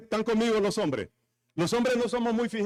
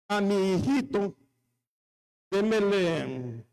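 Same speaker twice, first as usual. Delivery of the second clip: mother-in-law pleading; slower than usual. Retold or imitated. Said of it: "la suegra y decir".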